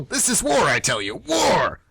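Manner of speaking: rally the troops like a general; rallying cry. Acted. Teacher to colleague, mock-general battle cry. Teacher declares war on seniors.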